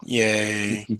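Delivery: drawn-out, monotone yay; dry, unenthused celebration; deadpan cheer. Real, not acted. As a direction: cheer with no lift at all. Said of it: "probably the most excited he's gonna be".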